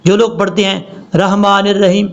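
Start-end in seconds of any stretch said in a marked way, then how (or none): 1.1-2.1 'رحمان الرحیم' run together with a plain h; wrong recitation. Shown as a demonstration. Teacher shows how people misread it, mistaken recitation. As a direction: say 'رحمان الرحیم' quickly, vowels unheld. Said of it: "یہ بہت بڑی غلطی ہے".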